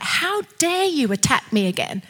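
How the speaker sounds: righteous indignation; indignant rebuke. Acted. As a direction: rebuke the attacker without shouting. Acted rebuke of the attacker.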